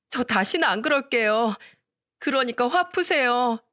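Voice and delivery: put-on a rude young wife suddenly pleading; pleading daughter-in-law. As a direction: beg father-in-law not to throw her out. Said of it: "싹싹 빌기를 시작했죠".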